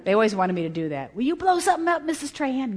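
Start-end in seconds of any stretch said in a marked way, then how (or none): 1.2-2.7 put-on high, eager kid's voice; eager student. Chemistry students beg their teacher to blow something up, high eager kid voice. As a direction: ask like a pleading pupil.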